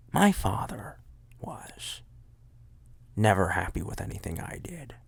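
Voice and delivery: hushed whispered confession; mock dramatic whisper. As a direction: whisper it like a dark secret. Joking dark confession.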